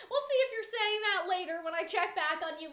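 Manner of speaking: understated, unspoken threat spelled out; veiled warning. Retold or imitated. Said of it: "that's the tone of her line".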